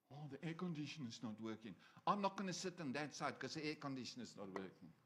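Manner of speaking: a hint of a whiny congregant; mock complaining. Preacher mimics churchgoers griping about the broken air conditioner, whiny. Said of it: "congregants complaining about heat".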